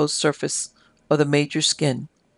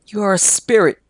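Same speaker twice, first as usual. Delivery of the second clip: eerie cry; 4 semitones higher, 6 dB louder than usual. A narrator's reading. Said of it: "in a thrilling, eerie whisper".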